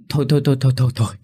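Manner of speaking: father breaking up the argument between mother and son; urgent hushing. A narrator's reading. Father stopping a quarrel.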